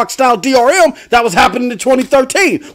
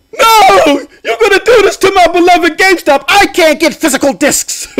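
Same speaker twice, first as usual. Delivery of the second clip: high, wailing mock protest; mock whining fans; 5 semitones higher than usual. Host mocking gamers who lost physical discs, mock wail. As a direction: imitate outraged fans crying over their store. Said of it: "That's how y'all was out here".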